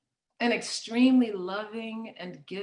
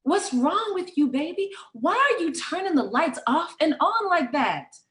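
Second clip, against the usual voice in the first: higher-pitched, lightly voiced pleading mother; a hint of a fretting mom; worried mother; 5 semitones higher than usual. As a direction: question her as an alarmed mother would. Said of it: "Mother tried to stop her".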